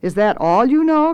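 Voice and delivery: high, indignant lordly cook; mock-outraged head cook; taunting chef. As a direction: scoff at your underlings. Swelter taunts the apprentices.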